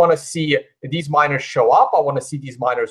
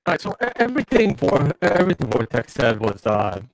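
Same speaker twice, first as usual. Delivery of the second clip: robot voice. Real, not acted. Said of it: "it's like a constant robot voice".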